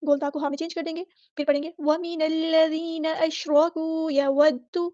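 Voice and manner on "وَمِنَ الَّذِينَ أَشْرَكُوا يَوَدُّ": continue flowing without a stop; slow melodic Quranic recitation; tajweed recitation. Shown as a demonstration. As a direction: chant it on to يَوَدُّ. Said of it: "اس طرح آیت کو آپ جاری رکھیں گے".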